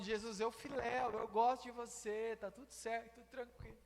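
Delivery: soft, fading away to almost nothing; sheepish reply. Acted. Peter admitting to Jesus he only likes him, sheepish soft reply. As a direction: play it down quietly, trailing off. Pedro responde sem convicção, baixinho.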